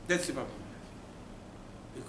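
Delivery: slow, hushed whisper. Real, not acted. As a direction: drop to a whisper for the refrain. Preacher repeats his refrain.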